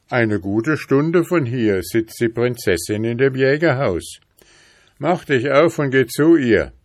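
mildly animated animal helper; helpful lion. Acted. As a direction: give hearty, encouraging advice as a storybook lion. Lion advises the boy.

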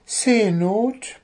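high indignant question; flaring-up little bird. A narrator's reading. Little bird flares up at the dwarf's word, indignant. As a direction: bristle in a high bird voice, rising. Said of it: "brauste Zwitschi auf".

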